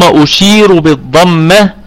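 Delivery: slow, deliberate teaching of ishmam; slow demonstration. Shown as a demonstration. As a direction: draw out each word as you explain the lip rounding. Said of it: "الإشمام يكون أني أقف على الكلمة بالسكون".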